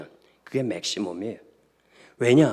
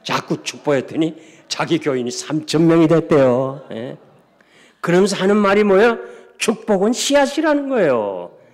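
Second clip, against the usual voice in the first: high, loud, exclaiming pulpit voice; full-force preaching; 5 semitones higher, 8 dB louder than usual. Real, not acted. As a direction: proclaim the lesson to the congregation. Preacher drives home the lesson.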